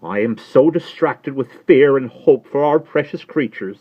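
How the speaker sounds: high, loud, mildly weepy; tearful Miss Pross. Acted. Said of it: "wildly crying".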